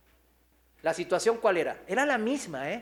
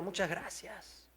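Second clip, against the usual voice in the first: retold crying; 9 dB quieter than usual. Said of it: "llorando nos dijo".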